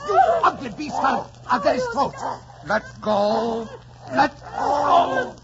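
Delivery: yelling high and loud while wrestling a dog; shouting at the dog. Acted. Heathcliff fighting the Linton dog that bit Kathy, shouting. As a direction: roar at the beast to let go.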